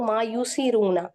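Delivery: slow recitation, the double r in युसिरूना held apart; slow tajweed recitation. Shown as a demonstration. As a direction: read it slowly as in Quran class. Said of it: "अब मैं इसको पढ़ूं".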